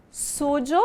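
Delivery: "sujo" with a voiced zh/dj sound for the y, sú-jo; suyo said with a j sound. Shown as a demonstration. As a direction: say "sujo" with the y like the s in pleasure. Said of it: "Lembrando que eu posso pronunciar". ("sujo" com som de j, como no português)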